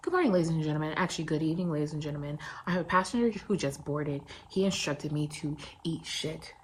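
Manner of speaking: lightly voiced flight attendant on the PA; measured, deadpan pretend announcement; mock cabin announcement. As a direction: address the cabin with pretend formality.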